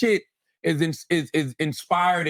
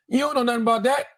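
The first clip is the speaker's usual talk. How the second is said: fired-up emphasis; 7 semitones higher than usual. Real, not acted. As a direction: press every line like a sermon. Heated emphatic commentary.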